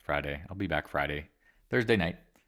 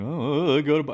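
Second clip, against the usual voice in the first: mock eager buyers; 9 semitones higher, 9 dB louder than usual. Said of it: "They're like".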